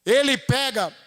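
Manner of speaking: ordinary talk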